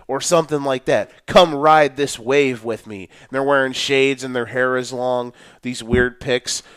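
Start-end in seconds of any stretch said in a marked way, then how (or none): 1.3-3.1 mock cool-guy caption. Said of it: "they put some sort of caption like".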